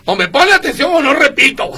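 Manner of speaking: half-joking bossy teacher voice, mildly imitated; Víctor impression. Host mimics Víctor warning listeners, mild mock sternness. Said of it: "como dice Víctor".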